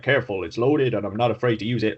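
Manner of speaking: a hint of a heroic American superhero line; lightly put-on American hero voice, quick on the end; a touch of American accent in a mock superhero threat. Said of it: "but not in an American accent".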